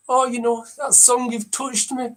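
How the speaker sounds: touched TV judge praising; talent show judge. Acted. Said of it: "Number ten".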